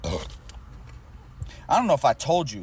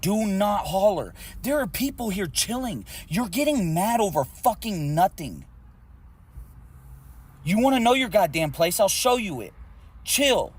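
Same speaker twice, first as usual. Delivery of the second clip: angry threat; 3 semitones higher than usual. Real, not acted. Driver warns the shouting passenger, angry and rising. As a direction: lay down the law, voice climbing.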